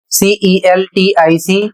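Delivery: slow, letter by letter; spelling out. Shown as a demonstration. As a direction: spell it slowly for learners. Teacher spells out a word. (धीरे-धीरे एक-एक अक्षर)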